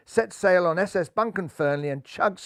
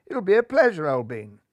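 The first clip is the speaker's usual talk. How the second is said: cheerful toff; 3 dB louder than usual. Acted. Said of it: "chortled Golden Hair".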